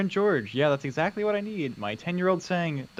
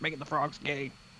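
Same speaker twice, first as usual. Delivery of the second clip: put-on ranting radio host voice, lower and quieter; 3 semitones lower, 7 dB quieter than usual. Joking with another speaker about frogs: Alex Jones impression. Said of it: "That was my Alex Jones impression".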